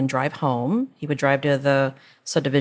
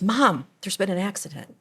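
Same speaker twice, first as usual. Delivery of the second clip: amused retelling; 4 semitones higher than usual. Retold or imitated. Mother retelling son's announcement, laughing. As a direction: quote breaking into a laugh. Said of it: "I'm laughing because he says".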